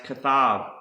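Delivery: kathab said kuh-THAV, ending in a v sound; Hebrew pronunciation. Shown as a demonstration. Teacher introducing a Hebrew word, kathab pronounced kuh-THAV. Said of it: "is pronounced".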